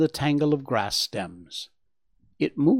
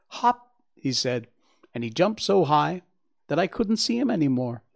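put-on excited young Bambi; 3 semitones higher than usual. Bambi tells his mother about the grasshopper, excited. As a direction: gush with wonder, pitch swooping up.

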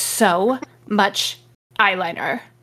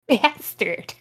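laughing, mock angry shout; hammed-up angry curse. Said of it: "I'm gonna yell that like that from now on".

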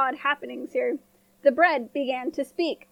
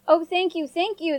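1 cheering apples; 3 semitones higher than usual. A narrator's reading. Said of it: "the apples cheered".

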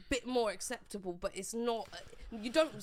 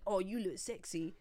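lower, softer mock compliment; put-on suggestive voice; 5 semitones lower, 7 dB quieter than usual. Woman quoting a compliment she dislikes, put-on voice. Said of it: "don't put that voice on".

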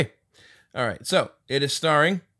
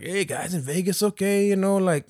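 Carlos impression; 8 semitones higher than usual. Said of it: "this is how he sounded".

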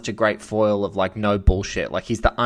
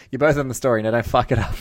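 louder, barking editor's order with a laugh; gruff editor impression; 3 semitones higher, 5 dB louder, faster than usual. A tough editor tells his reporters to get on the story, gruff.

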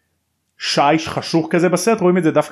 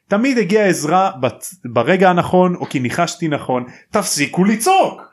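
higher, mildly heated mock outburst; retold angry shouting; 4 semitones higher than usual. Harry insisting he always had help, retold angry shouting. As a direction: imitate someone losing his temper, building to the last words. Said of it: "למה הוא כועס או צועק".

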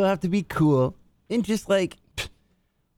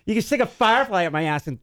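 hammed-up put-on voice; 7 semitones higher than usual. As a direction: ham it up in a stretched, lifted voice. Answers impression with own voice.

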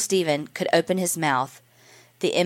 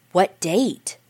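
hungrily; 2 semitones higher than usual. Acted. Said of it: "she inquired hungrily".

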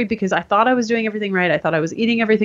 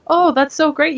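higher, mock-enthusiastic praise; gushing doctor; 8 semitones higher than usual. Doctor wrongly praising seven years without a period, gushing. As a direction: imitate a doctor gushing cheerfully. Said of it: "met a doctor the other day that said".

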